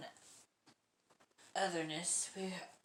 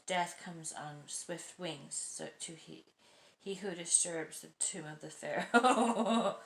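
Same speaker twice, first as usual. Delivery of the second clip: slow, solemn doom-laden pronouncement, louder at the end; ominous child prophecy; 6 dB louder, slower than usual. Retold or imitated. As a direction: intone it like an ancient curse. Child's ominous quote told to dad.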